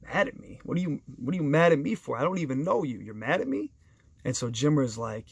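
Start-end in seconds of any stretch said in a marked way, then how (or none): 0.0-3.7 taken aback. Retold or imitated. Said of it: "Luis is taken back".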